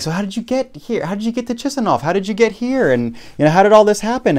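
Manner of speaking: high, pressing border officer voice; interrogating officer. Retold or imitated. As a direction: grill them like a suspicious border guard. Officer's questions acted out.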